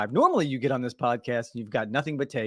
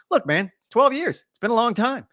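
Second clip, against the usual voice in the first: amazed exclaim; 9 semitones higher, 4 dB louder than usual. Real, not acted. To his cohost about Kim's long absence, a high amazed exclaim. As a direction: stretch it out, marvel at how long it's been. Marvelling at twelve-year absence.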